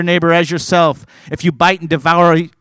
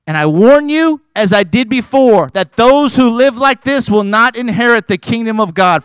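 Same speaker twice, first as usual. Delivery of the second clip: raised, loud preaching warning; stern warning; 4 semitones higher, 4 dB louder than usual. Real, not acted. Preacher warns the church, loud and stern. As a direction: thunder the warning at them.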